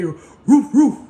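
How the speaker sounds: loud playful woof, like a dog; mock dog bark. Lover mocking you to their partner, barking roof roof. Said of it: "I heard them say".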